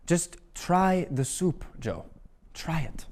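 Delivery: put-on urging old man. Eric urging dad to taste.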